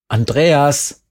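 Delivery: a name called out loud and sharp; sudden shout. A narrator's reading. Jerry shouting at the dazed narrator, loud. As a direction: yell the name to snap him out of it. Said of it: "Jemand schrie mich an".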